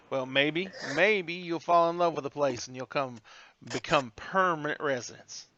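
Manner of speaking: lightly drawled Southern hostess; Southern hostess accent. Acted. Hostess thanking a flattering guest, light Southern accent. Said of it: "You throw on that accent".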